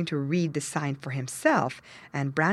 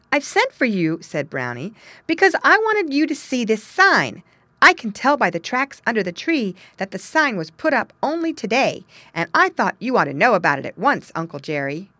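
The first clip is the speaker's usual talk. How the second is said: put-on young beaver voice; 3 semitones higher, 4 dB louder than usual. Brownie Beaver speaks to Uncle Jerry.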